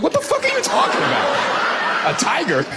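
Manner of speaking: baffled, hammed-up outburst; mock disbelief. Listener hears of plan to pet a tiger, mock disbelief. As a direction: react as if the plan is absurd.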